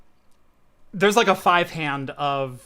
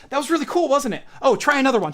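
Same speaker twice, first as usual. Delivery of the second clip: high, breezy magician patter; high-pitched, lightly hammed-up cheer; mock showman enthusiasm; 8 semitones higher, faster than usual. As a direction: imitate an eager magician bluffing along. Magician bluffing cheerfully to volunteer.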